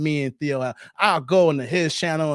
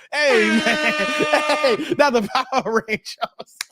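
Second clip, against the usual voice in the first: laughing yelp; 4 semitones higher, slower than usual. Real, not acted. Host reacting to funny chat comment.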